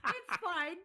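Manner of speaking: chuckling through the words; laughing. Real, not acted. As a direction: say it while laughing. Laughing through his own remark.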